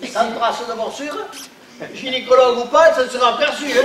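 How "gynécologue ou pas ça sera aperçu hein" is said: put-on Belgian accent. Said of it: "On avait dit sans accent".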